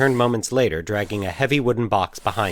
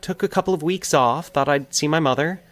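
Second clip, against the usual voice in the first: confiding; 8 semitones higher than usual. A narrator's reading. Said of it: "she confided".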